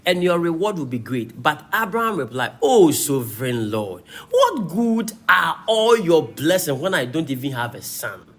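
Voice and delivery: emphatic, rise-and-fall Bible reading; preacher declaiming a dialogue from scripture. Acted. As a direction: read the passage out to a congregation. Reads scripture aloud.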